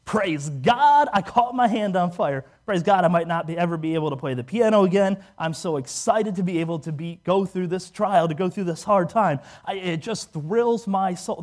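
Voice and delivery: put-on gushing praise; mock rejoicing. Burn patient in the emergency room, mock rejoicing. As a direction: gush with exaggerated, unlikely delight. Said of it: "I was not sitting there thinking".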